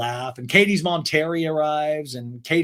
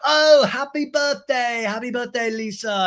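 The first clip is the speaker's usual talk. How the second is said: high, slow, loud sing-song; mock gushing James; 9 semitones higher, 3 dB louder, slower than usual. James gushes birthday wishes to Lisa, high slow sing-song. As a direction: overdo the gushing.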